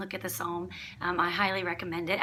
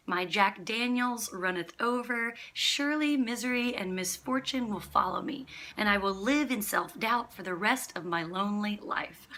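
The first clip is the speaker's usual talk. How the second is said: mock psalm reading. Preacher reading a funny rewritten psalm to listeners, mock-solemn recitation. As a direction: parody scripture read aloud with emphasis. Reads parody psalm aloud.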